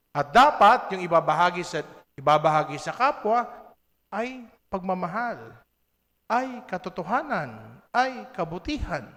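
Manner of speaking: loud, rising proclamation, then high and ringing; building preaching shout. Real, not acted. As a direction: build it up like a preacher at full force. (malakas at tumataas na pangangaral)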